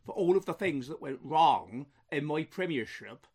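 lightly mocking Truss voice with a faint West Country tinge; a hint of a West Country Liz Truss; Liz Truss impression. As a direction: play a bemused prime minister deflecting blame, barely disguised. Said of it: "I speaks in this bizarre accent".

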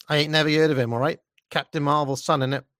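mock Cockney retort with dropped aitches. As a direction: put on a dismissive Cockney girl. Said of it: "that classic blend of Michael Caine Cockney".

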